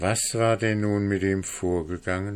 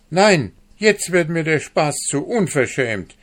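higher, louder angry outcry; calling out angrily; 8 semitones higher, 6 dB louder than usual. A narrator's reading. Hanne calling to her neighbour in outrage, loud and angry. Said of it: "rief Hanne ihrer Nachbarin zu".

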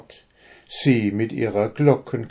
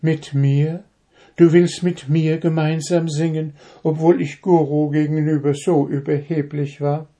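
surprised disbelief; 7 semitones higher than usual. A narrator's reading. Dove surprised and moved.

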